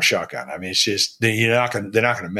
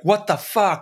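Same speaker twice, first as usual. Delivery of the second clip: higher mocking voice, half-yelled in disbelief; mock exasperated accountant; 10 semitones higher, slower than usual. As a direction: play a fed-up accountant mocking their sloppy books. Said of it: "I wanted to be like".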